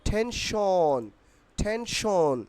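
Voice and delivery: drawn-out টেনশন with aspirated T; model pronunciation. Shown as a demonstration. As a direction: stretch টেনশন, puffing the T. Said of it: "উচ্চারণ কি হবে".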